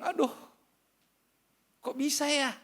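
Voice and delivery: high, awed exclamation in a put-on voice; amazed wonder. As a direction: marvel out loud at grace. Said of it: "Saya bilang". (kagum, suara tinggi penuh heran)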